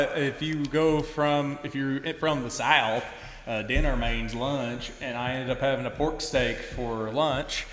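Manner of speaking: slow Southern US drawl; Southern accent. Pretend. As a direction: put on an unhurried Southern accent. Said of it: "do your Southern accent again".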